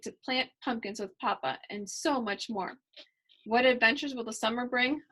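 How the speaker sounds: lively storybook reading voice; reading to children. A narrator's reading. Reader voicing Kylie's story for young listeners, lively storybook reading. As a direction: read it to the kids with bright energy.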